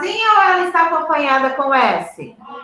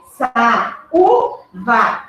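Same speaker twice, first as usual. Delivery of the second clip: "Sa, u, va" split into separate syllables, stressed on "u"; teacher sounding out "Sa, u, va" to show the stressed "u"; syllable-by-syllable stress demo; much slower than usual. Shown as a demonstration. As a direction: break "Sa, u, va" apart and make the "u" strongest. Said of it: "a sílaba tônica".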